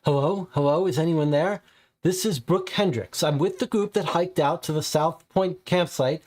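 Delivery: hunted hiker pleading into a phone for rescue, frightened; panicked call for help. Acted. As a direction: beg for help over the radio, scared.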